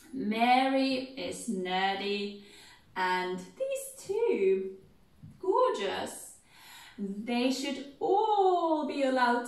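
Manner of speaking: very slow, sing-song listing; proud Mrs Bennet. Shown as a demonstration. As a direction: savour each daughter's name. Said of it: "So we'll go".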